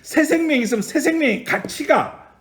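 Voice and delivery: high, loud pulpit delivery; impassioned preacher building in force; forceful preaching. Real, not acted. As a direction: proclaim it with urgency to the congregation.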